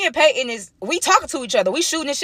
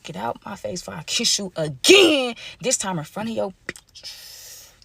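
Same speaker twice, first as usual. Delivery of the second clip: slow savoring repeat; 4 dB quieter, slower than usual. Shown as a demonstration. Narrator lingers on Peyton's line, slow and soft. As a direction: repeat "Get out my face before I kiss you again" slowly, the end dropping much softer. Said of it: "repeats the line slowly".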